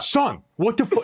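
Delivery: high, slow hammed-up dad; dad dressed like his kid scolding him, hammed up; mock exasperated dad. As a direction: drag it out in fake disbelief. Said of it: "be like".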